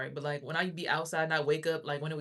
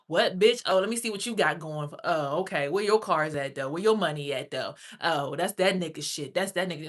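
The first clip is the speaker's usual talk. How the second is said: mock belligerence; 6 dB louder than usual. Acted confrontation with store manager.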